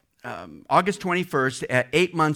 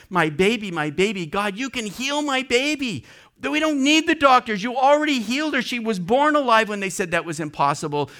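retold sobbing prayer; 4 semitones higher than usual. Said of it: "she's crying, just sobbing".

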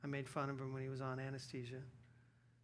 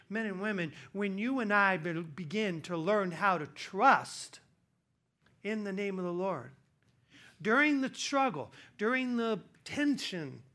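much higher and louder, building to a fever pitch; preaching climax; 6 semitones higher, 9 dB louder than usual. Acted. Pastor urging men and women to trust, preaching at full force. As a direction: preach it hard to the back row.

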